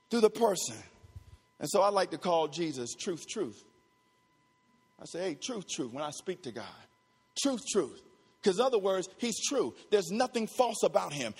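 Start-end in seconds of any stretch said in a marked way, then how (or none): 1.6-8.0 low, soft intimate aside; quietly reverent, much lower and softer; hushed reverence. Real, not acted. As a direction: drop right down, as if confiding. Intimate aside about addressing God.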